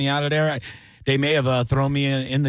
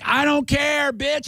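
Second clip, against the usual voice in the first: defiant retort; 13 semitones higher, slower than usual. Retold or imitated. Comic hollers back at bookers.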